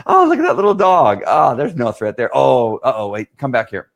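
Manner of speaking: put-on very high, loud squealing child voice; dad imitating his daughter squealing over a puppy; daughter's squeak. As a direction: squeal like an excited little girl. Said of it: "she squeaks".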